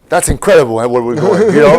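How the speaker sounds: excited. Real, not acted. Host marvels at treatment news.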